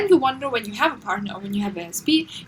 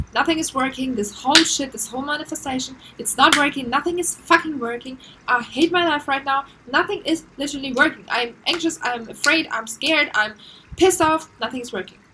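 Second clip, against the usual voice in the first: frustrated rant; 3 dB louder than usual. Retold or imitated. Voicing your own frustrated outburst.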